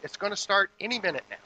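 loud, high, impatient demand for beer; mock bossy husband yelling for beer. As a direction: bark it out like a pushy husband. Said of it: "he said".

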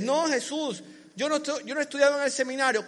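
quick, pleading excuse; a believer making excuses to Jesus, hurried; whiny excuse. Acted. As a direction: rush the excuse like someone dodging.

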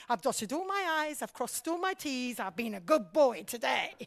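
mock good boy, lightly smug; smug satisfaction. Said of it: "feels utterly satisfied".

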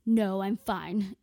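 mock-stern brush-off. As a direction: shut him down firmly and slowly. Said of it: "I just sternly told him".

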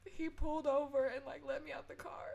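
crying. Real, not acted. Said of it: "I've been crying majority of this episode".

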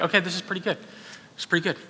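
softly conceding it after all; understated, softened verdict; quiet admission. Retold or imitated. Reluctant kid finally tries crawfish.

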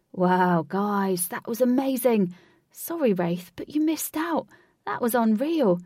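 loud, thrilled outburst; tireless enthusiasm. A narrator's reading. Lynx to the group after the fun, excited. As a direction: gush at full energy, loud. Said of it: "showing no signs of fatigue".

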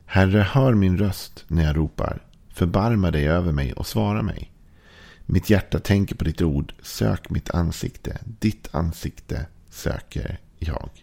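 slow, reverent reading of the psalm, fading toward the end; scripture reading. Acted. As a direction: read the verses like a prayer. Reads psalm verses aloud.

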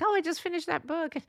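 high-pitched chirp of acted news; pleased announcement. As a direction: share your little achievement proudly, acted out. Acts out announcing a finished book.

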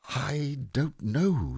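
high, drawn-out mournful reply; slow, forlorn puzzlement from a simple bear; rather doleful. A narrator's reading. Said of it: "said Pooh rather dolefully".

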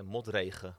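modregen said as in Dutch; Dutch word. Shown as a demonstration. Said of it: "we say in Dutch".

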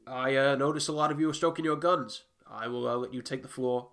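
lightly voiced politician at a meeting; mayor's public address. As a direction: announce it aloud, conceding the floor. Mayor answering the whispered warning aloud.

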